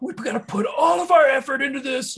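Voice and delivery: frantic screaming, very high pitch and loud. Retelling studio outtakes of a musician railing at his band: imitating the musician screaming. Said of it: "screaming at them so loudly".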